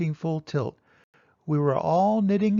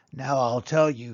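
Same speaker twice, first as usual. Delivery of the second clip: gray-toothed Onceler; 4 semitones lower, 3 dB louder than usual. Acted. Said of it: "with his teeth sounding gray".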